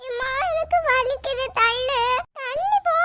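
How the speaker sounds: put-on slow, high, hurt child's whine; whimpering little girl. Girl squeezed on the bench whining to her mother, slow and high. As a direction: plead like a small child who got shoved.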